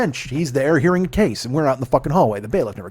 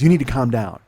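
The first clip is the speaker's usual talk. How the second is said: the first one a bit louder, a firm order; firm calming order; 4 dB louder than usual. Retold or imitated. Bailiff to angry man, a firm louder warning. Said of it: "She goes".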